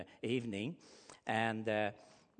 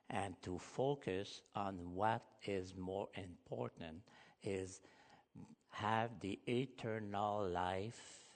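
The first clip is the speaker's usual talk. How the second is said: tender appeal; slower than usual. Real, not acted. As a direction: gently lay the promise on their heart, slowly. Pastor's soft appeal to listener.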